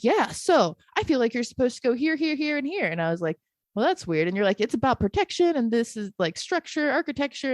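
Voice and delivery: mimicking channeling partner.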